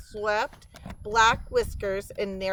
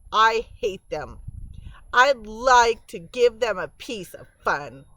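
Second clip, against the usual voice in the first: put-on angry young mouse; 3 semitones higher, 6 dB louder than usual. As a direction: spit out the hatred, building. Ry angry at beavers.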